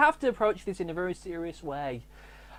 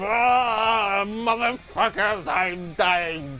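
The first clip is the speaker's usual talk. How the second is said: drawn-out mock death cry; hammy death throes; dying villains; much slower than usual. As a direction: go down wailing and cursing. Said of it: "and they'll go".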